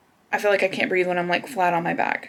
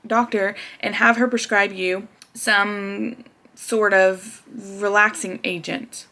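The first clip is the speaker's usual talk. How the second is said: kind tech; slower than usual. Retold or imitated. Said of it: "She tells me".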